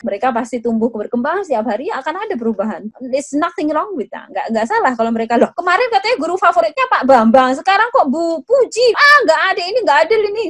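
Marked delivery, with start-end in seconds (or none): 5.4-10.4 put-on surprised child. Child changes favourite teacher.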